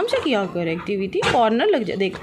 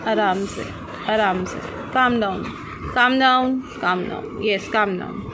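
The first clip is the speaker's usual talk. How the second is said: soothing; 4 semitones lower, much slower than usual. Real, not acted. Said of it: "soothing dog".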